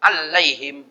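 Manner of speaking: "'Alaihim" with the l doubled, al-laihim; "'Alaihim" split on a long double l; wrongly added tasdid. Shown as a demonstration. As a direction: hold the l in "'Alaihim". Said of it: "dibaca tasdid".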